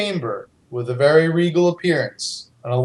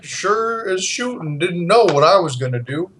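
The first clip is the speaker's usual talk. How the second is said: theme park character. Acted. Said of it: "It's Barney".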